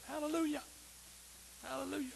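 tiny, high, soft mock praise; timid hallelujah. Shown as a demonstration. Preacher mocking joyless praise, timid and small. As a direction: squeak it out weakly, barely there. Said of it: "It's not just".

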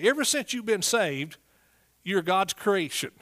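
ordinary talk

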